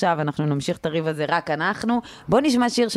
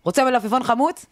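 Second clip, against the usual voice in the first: mother suddenly switching to polite waitress mode; 4 semitones higher than usual. Retold or imitated. Mother serving father mid-fight, imitated waitress tone. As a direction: offer it like a waitress, higher-pitched. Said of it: "היא מורידה את הטון לטון של המלצרית".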